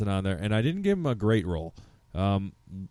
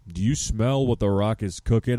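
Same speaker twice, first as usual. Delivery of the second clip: The Rock. Acted. Podcast host quotes his favorite wrestler to friends, lightly imitated. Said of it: "my boy Dwayne The Rock Johnson".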